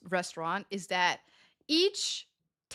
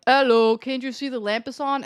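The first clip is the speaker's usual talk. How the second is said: louder mock customer calling out; impatient customer; 4 semitones higher, 5 dB louder than usual. Waitress imitating guests calling from behind a wall, impatient. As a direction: call for attention like a put-out guest. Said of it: "Or people, they're like".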